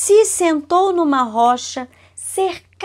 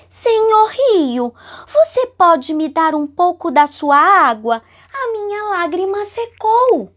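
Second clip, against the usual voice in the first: Lacriminha's plea; 3 semitones higher than usual. Acted. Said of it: "falou assim".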